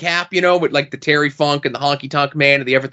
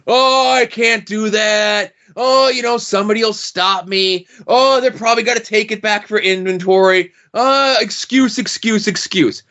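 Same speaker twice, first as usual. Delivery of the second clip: whiny mock excuses; 3 semitones higher than usual. Mocking timid collectors' excuses.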